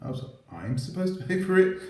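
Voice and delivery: high mocking voice of the beggar; mock whiny excuse. Vlogger mocks a donation seeker's excuse, high mock voice. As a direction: parrot their excuse in a high sneer.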